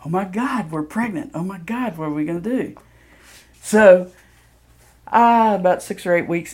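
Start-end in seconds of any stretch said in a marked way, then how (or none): 0.0-2.7 re-enacted panic, quick rising and falling cries; mock freak-out. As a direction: act out a mildly panicked couple. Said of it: "freaking out going".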